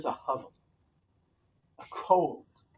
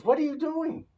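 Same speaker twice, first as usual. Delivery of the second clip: put-on old woman voice; 12 semitones higher, 5 dB louder than usual.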